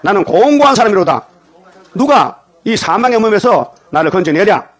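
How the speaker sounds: loud, high preacher's cry, key words drawn out; Paul's lament. Acted. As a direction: cry it out for the congregation to repeat. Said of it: "그래 바울이 목사요. 따라합시다".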